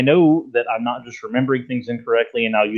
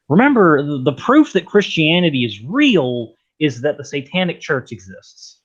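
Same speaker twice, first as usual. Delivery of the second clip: Discount Hovind; 3 semitones higher than usual. Retold or imitated. Retelling a caller's proof to the co-host, in imitated accent. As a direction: imitate the accent, punching the first word. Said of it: "trying to get the actual accent of Discount Hovind".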